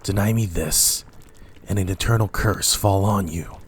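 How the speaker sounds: loud, furious insistence; raging command; angry demand. Acted. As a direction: force the answer out of them. Macbeth demands of witches.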